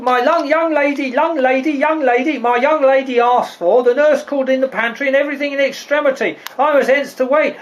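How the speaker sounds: fast, stammering urgency; flustered rush. Acted. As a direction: trip over the words to get the news out. Flustered servant delivers urgent message.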